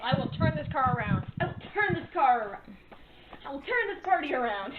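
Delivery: lightly acted fed-up parent threat; a hint of a scolding parent; mock stern parent. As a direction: play at being the exasperated parent driving.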